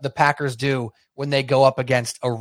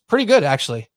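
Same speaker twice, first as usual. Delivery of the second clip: calmly; 3 dB louder than usual. Retold or imitated. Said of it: "he very calmly goes".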